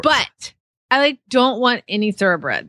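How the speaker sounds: lightly voiced American teenage girl; a hint of teen girl in the voice. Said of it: "teenage girl voice".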